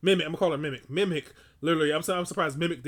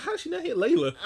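laughing disbelief; 12 semitones higher than usual. Retold or imitated. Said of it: "I was like".

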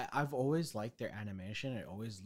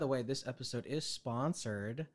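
mock ad read. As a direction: announce the sponsor like a cheesy ad. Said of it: "do an ad read".

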